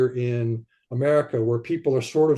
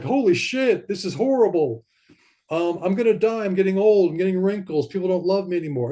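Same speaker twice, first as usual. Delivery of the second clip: higher-pitched dismayed complaining; mock distress; 5 semitones higher than usual. Listing life's horrors as a sufferer of trauma, mock distress. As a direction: voice a running list of woes, pitched up.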